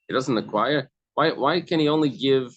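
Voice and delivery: "He doesn't acquire" asked with a rising, disbelieving tune; astonished question. Shown as a demonstration. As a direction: ask it as if it can't be true. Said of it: "in a astonishment".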